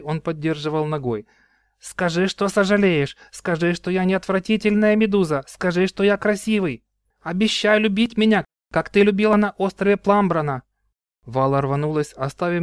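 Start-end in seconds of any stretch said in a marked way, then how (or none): 1.8-10.6 high, louder insistent pleading; furious demand. Acted. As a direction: force her to say it, half hurt. Tiarion holds sister, demands apology.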